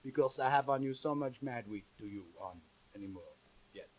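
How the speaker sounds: put-on comic French storyteller accent; broken English in a heavy French accent. French chanteur introducing a song to the audience, thick French accent.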